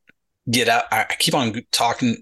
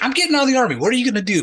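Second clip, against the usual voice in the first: defiant yelling; 12 semitones higher, much faster than usual. Retold or imitated. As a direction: shout back much higher, daring him. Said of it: "I start yelling at this E seven".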